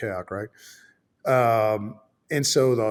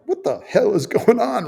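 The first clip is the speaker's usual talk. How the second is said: laughing confusion; 9 semitones higher than usual. Retold or imitated. Confused, laughing at own story.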